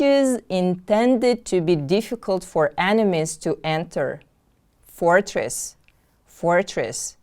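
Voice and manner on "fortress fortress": "Fortress" with the first syllable stressed, falling away. Shown as a demonstration. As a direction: model "Fortress" carefully, weight on FOR. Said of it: "The stress is on the first syllable".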